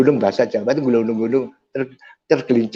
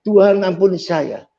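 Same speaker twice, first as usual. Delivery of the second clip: higher-pitched mock cry to God; retold outcry, pitched up; imitated crying out; 5 semitones higher than usual. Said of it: "Pas Taci itu teriak".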